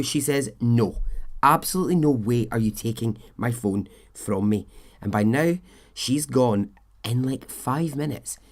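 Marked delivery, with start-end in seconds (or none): 0.6-4.7 pissed off. Retold or imitated. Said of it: "she is getting pissed off".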